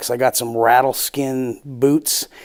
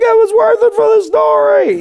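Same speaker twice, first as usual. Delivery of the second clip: high, loud, laughing yell; shouted retort; 5 dB louder than usual. Retold or imitated. Comedian to unpaying owner, high shouted retort. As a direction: yell it back cheekily as you leave.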